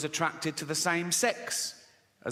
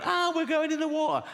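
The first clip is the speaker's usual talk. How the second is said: high-pitched mock panic cry; panicked passengers; 12 semitones higher than usual. People running around as the boat sinks, mock panicked. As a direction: wail like a passenger on a sinking ship. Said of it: "people are running around going".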